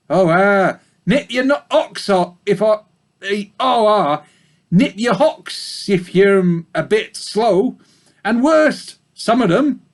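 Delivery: put-on a gossipy old ewe in a thick country accent. A narrator's reading. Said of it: "Sorry about the bad accents".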